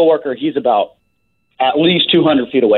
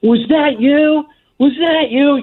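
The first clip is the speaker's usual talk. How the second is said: put-on shrill, very high, repeated screaming. Retelling how a man saw the speaker laughing, imitating someone screaming. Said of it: "He just starts screaming at me".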